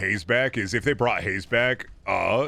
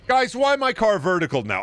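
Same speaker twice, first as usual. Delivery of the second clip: exasperated whine; 8 semitones higher than usual. Real, not acted. Louder repeat of complaint.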